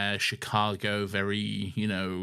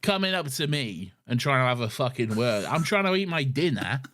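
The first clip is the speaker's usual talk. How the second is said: indignant woman; 2 semitones higher than usual. Retold or imitated. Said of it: "this woman is like".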